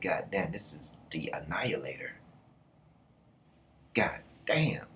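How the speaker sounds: hushed, stunned whisper; awed whisper. Retold or imitated. Viewer awed by the brutal general, whispering. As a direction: breathe it out in disbelief.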